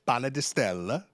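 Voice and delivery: put-on said with an Italian accent; lightly Italian pronunciation. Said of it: "That's your Italian accent".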